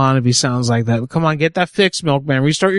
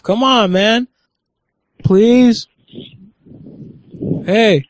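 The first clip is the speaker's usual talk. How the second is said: mock pleading; 7 semitones higher, much slower than usual. Real, not acted. Pleading mockingly with the agent.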